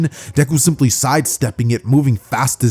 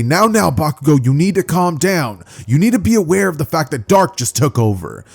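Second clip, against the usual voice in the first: higher-pitched cautioning voice; placating teacher; 5 semitones higher than usual. Acted. Teacher calming Bakugo as his temper flares, placating. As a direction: talk a hothead down, pitched up.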